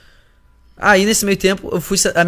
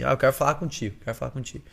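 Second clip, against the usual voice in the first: put-on drunk slur; 6 dB quieter than usual. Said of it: "bem bêbada assim".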